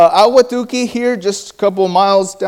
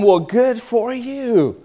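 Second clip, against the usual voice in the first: slow, dry good for you; drawn-out ironic reply; dry sarcasm; 3 semitones higher, much slower than usual. Real, not acted. Preacher answers a longtime churchgoer, slow and ironic.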